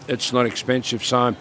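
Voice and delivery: ordinary talk, nothing marked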